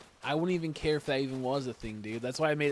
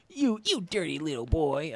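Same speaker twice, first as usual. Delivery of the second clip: a lightly voiced scolding old teacher, louder; old teacher impression; 2 semitones higher, 5 dB louder than usual. Quoting a favorite video to friends, loud mock scolding. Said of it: "I love that fucking video".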